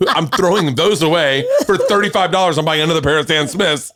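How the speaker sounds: imagined rant, laughing through it, rising toward the end; laughing mock rant. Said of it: "I wanted to be like".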